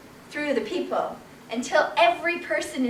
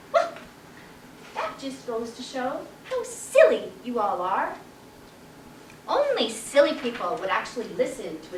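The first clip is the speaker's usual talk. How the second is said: calm chicken; 5 dB quieter than usual. Acted. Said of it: "stood calmly".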